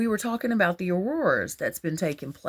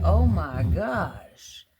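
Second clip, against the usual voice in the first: retold amazement; much slower than usual. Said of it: "I was just like".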